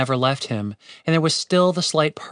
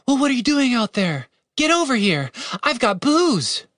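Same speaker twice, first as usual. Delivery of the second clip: higher woman's voice, coaxing; Catherine, wry; 10 semitones higher than usual. Acted. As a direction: call him over, loose and teasing. Catherine's voice held.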